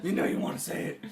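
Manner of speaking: hushed, playful whisper; teasing whispered coax; mock coaxing whisper. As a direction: whisper it to tempt someone.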